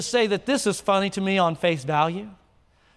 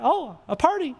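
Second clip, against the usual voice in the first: excited; 3 semitones higher than usual. Acted. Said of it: "And he's all excited".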